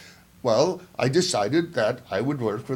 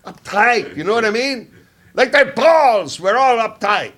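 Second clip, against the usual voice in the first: put-on German accent; 2 semitones lower than usual. Old Brazil spy imitating the German guys in a faint German accent. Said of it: "let me see if I can do their accent".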